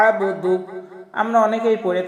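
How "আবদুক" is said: আবদুক with the ain pressed from mid-throat; throaty ain. Shown as a demonstration. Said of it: "হলকের মধ্যখান থেকে একটু চাপ দিয়ে".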